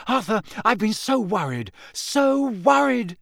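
high, fretful, breaking worry; frantic mother. A narrator's reading. Mother greeting her husband after the attack, high and fretful. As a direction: pour out her fear.

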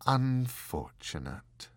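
slow, regretful single word. Acted. The angel to the Marquis, slow and regretful. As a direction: let the word sink with regret. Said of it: "with regret".

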